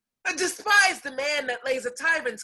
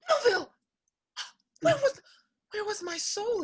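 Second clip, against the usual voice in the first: surprise; 8 semitones higher, faster than usual. Acted. She suddenly recognises her lover.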